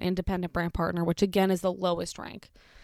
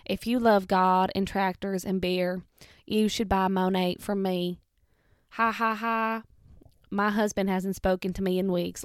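put-on a light Southern US accent, selling like an MLM rep; lightly Southern-accented sales pitch with a smile. Southern Monat seller pitching to tractor and beer lovers, lightly Southern accent. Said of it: "very good impression of a Southern Monat person".

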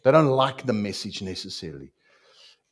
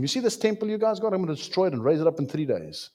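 fast, higher challenge; Jesus challenging; 6 semitones higher, faster than usual. Acted. Jesus taunting the crowd about the temple, fast. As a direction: toss it off, fast and bold. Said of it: "He says to him".

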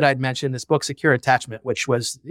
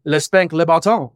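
lightly hammed-up French accent; mock-French place name, played as a joke; corny French accent; 3 semitones higher than usual. Dad jokingly threatens his son at bedtime, corny French accent. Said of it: "in this very corny French accent".

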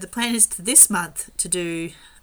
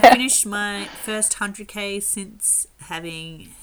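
excited; 4 semitones higher, 12 dB louder than usual. Real, not acted. Proud news of first hundred K.

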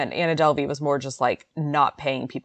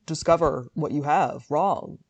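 mock Holmes voice. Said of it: "soon I'm gonna talk like this".

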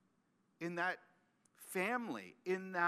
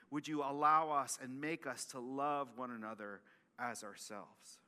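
prayer; 2 semitones lower than usual. Acted. Pastor prays after the sermon.

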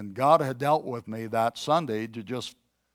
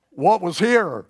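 alarmed inner question; 7 semitones higher, 7 dB louder than usual. Retold or imitated.

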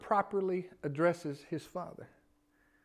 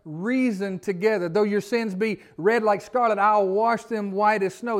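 pleading scripture; 2 semitones higher, 5 dB louder, slower than usual. Retold or imitated. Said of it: "the Isaiah thing".

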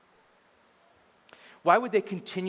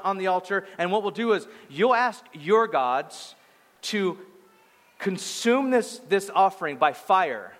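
bold, raised-pitch retelling of a challenge; 3 semitones higher than usual. Retold or imitated. Prophet setting rival priests a contest, boldly. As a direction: lay out the terms with bold confidence. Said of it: "Elijah was pretty bold".

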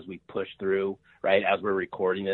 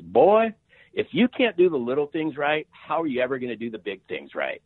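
imitating a Southern mom laying down the law, pitched up; mother-in-law's lecture; 5 semitones higher than usual. Mother-in-law lecturing her daughter's suitor at dinner, mock stern and higher. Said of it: "And she just says".

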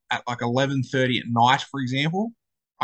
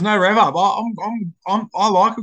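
revved up; 7 semitones higher, 5 dB louder than usual. Real, not acted. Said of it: "just a simple hello".

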